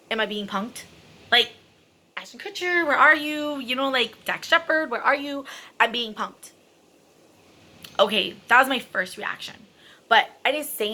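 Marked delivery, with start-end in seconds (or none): 0.1-6.5 mock disbelief. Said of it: "my first reaction is".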